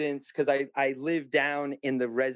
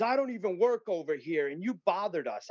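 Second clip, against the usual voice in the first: higher-pitched mild mock yell; retold yelling cop; 4 semitones higher than usual. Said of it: "And she starts yelling at me".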